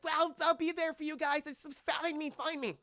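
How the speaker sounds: lightly voiced Lily. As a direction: call back as the chopper lifts off, lightly played.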